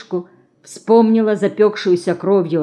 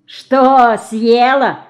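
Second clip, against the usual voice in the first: guffawing; 5 semitones higher, 6 dB louder, much slower than usual. A narrator's reading. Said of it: "расхохотался цыган".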